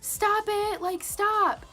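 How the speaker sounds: high, loud retold protest; insistent protest. Best friend telling the boys off, high insistent protest. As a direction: imitate a friend calling them off, high and loud.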